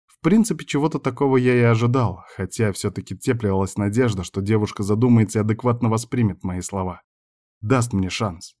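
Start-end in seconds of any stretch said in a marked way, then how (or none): none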